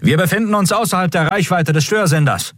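high, formal announcing voice; officer announcement. A narrator's reading. Comms officer announcing to the crew, formal. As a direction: announce it to the bridge.

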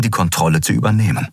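plain reading voice

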